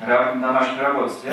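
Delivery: loud demanding question; drill sergeant. Retold or imitated. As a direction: interrogate like a sergeant. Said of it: "like a drill sergeant in the army".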